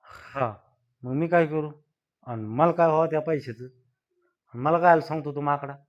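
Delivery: irritated loud retorts; annoyed man yelling at the loan agent; angry yelling. Acted. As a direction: shout him down, fed up. Irritated man yells at caller.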